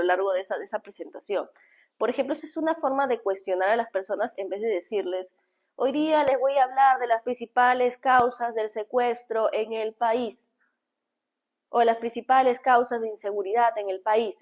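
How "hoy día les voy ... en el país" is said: stiff, formal announcer opening; dull traditional opening. Shown as a demonstration. Coach showing the boring way to open a talk. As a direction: read it like a boring standard speech. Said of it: "Esa sería una forma tradicional de hablar".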